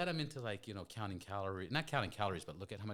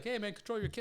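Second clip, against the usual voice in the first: high, raised-voice retold scolding; mock indignant complaint; 12 semitones higher, 4 dB louder, faster than usual. Offended stranger to the dad, mock indignant. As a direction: complain to a parent, hammed up for laughs.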